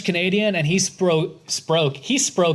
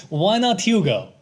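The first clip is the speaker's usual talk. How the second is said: Hugo in a put-on Russian accent; lightly acted Russian accent; 3 semitones higher than usual. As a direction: do a plaintive broken-English Russian accent. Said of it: "speak of Hugo in a Russian accent".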